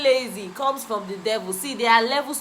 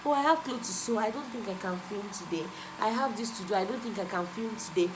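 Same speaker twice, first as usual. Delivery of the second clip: mock excuse; 5 dB quieter than usual. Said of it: "one thing I used to do before is like".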